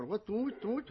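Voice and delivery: high, loud disbelieving question; astonished. Acted. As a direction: blurt it out in acted disbelief. King astonished at who confessed. (ਹੈਰਾਨ ਹੋ ਕੇ ਪੁੱਛਣਾ)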